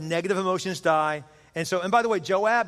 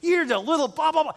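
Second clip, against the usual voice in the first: high-pitched heckling from afar; mock yelling; 9 semitones higher than usual. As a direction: imitate a jerk yelling insults. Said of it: "he's just yelling".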